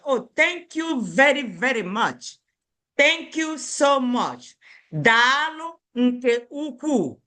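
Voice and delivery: warm thanks. Shown as a demonstration. Teacher models heartfelt thanks for the class.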